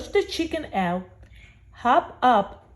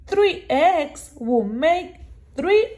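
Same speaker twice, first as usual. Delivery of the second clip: eager; 6 semitones higher than usual. Acted. Hungry cat dreams of omelets.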